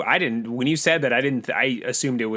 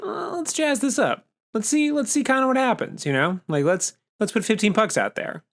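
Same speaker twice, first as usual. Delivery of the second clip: mock bored fan; 8 semitones higher than usual. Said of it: "people in the audience who are just like".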